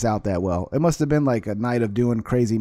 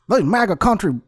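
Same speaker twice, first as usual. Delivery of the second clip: higher-pitched mock redneck-style voice; racist MAGA supporter; 7 semitones higher than usual. Shown as a demonstration. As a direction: imitate a racist Trump fan, mockingly. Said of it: "if a racist, um, like, maga supporter".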